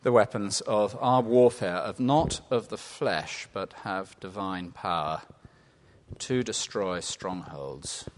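prayerful verse recitation; slow prayer. Shown as a demonstration. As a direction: let each phrase settle as you start praying. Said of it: "Let's pray together".

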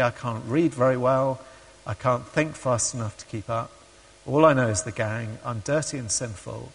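understated despair, no sobbing; retold tearful dejection. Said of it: "And he's crying".

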